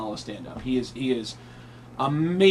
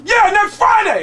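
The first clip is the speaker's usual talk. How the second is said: high, booming mimicked shout; hammed-up shout, far above normal pitch; Tracy Morgan; 11 dB louder than usual. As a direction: bellow it as a comic impersonation. Tracy's shouted reply, acted.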